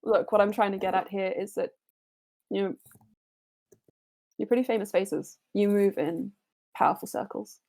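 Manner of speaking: measured, serious counsel to heroes; calm warning from a wise figure; lightly voiced sage warning; earnest NPC advisor. NPC gives advice in character.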